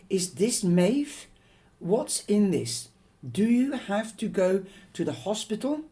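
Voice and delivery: high, loud anxious questions; mother fearing her daughter needs hospital; alarmed worry. Acted. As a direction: press her with frightened questions.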